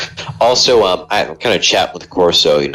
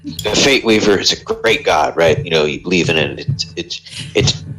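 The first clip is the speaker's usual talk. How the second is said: a hint of Texas in a preacher's pitch; Texan accent; 2 semitones lower than usual. A traveler selling his god to a prisoner, light Texan accent.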